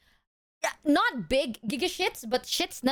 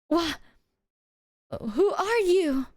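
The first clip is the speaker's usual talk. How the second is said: high startled question; bewildered movie hero; movie character quote; 6 semitones higher, slower than usual. Retold or imitated. Character's line in movie climax.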